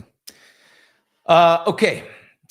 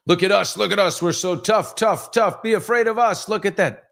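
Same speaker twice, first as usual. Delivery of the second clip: Kim Jong-un boasting; 10 semitones higher than usual. Retold or imitated. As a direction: puff up like a dictator showing off. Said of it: "Kim Jong-un that need to say".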